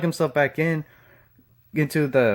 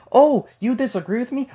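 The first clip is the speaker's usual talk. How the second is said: mocking whine; 7 semitones higher than usual. Mocking refrain, imitating opponents.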